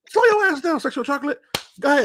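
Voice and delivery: high playful warning; a fan cop waving him off; mock-stern cop letting him go; cop's voice. Cop warns jokingly.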